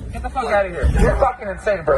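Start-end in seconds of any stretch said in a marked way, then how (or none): 0.1-0.9 loud angry frat bro yell; angry shout. Real, not acted. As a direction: bark him off, louder. Man shouting at attacker.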